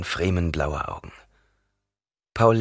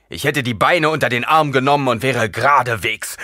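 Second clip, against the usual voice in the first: higher, louder rush of words; eager protest; 6 semitones higher, 6 dB louder than usual. A narrator's reading. Gurney insists to Paul he would have come at once, eager.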